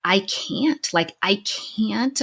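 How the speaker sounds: slow, halting, choked-up words; crying as she relives the shame; tearful. Real, not acted. Recalling her fear of the TEDx video, tearfully slow. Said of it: "Oh, I am crying now".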